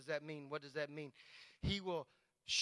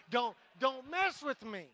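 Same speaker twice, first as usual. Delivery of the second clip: tough bad man attitude; 4 semitones higher, 5 dB louder than usual. Shown as a demonstration. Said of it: "I'm a bad man".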